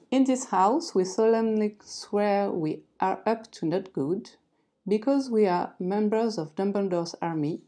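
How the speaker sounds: reading English aloud with a strong French accent; slow, careful English read with a French accent. Shown as a demonstration. Vlogger reads the Harry Potter sign to viewers in French-accented English. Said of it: "Excusez tout de suite mon accent anglais".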